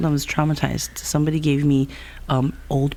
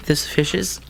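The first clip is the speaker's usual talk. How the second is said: ASMR voice; slower than usual. Pretend. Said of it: "You know how to A S M R".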